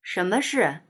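displeased, unhurried reply; mildly grumpy and unhurried; unhurried drawl. A narrator's reading. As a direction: answer grudgingly, taking your time. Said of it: "慢吞吞地说".

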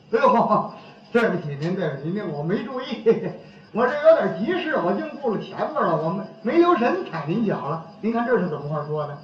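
soft, polite apology, acted out; 客气赔不是. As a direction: apologize quietly and courteously. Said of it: "要客气呢". (轻声客气地连连道歉)

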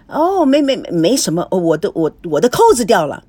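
stammering, caught-out cover-up; flustered, broken-up fibbing; flustered excuse. Acted.

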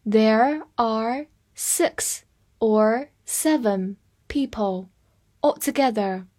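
each word set apart by pauses; slow teacher's model for learners; slow reading. Shown as a demonstration. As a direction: read very slowly, one word at a time. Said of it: "来慢读一遍".

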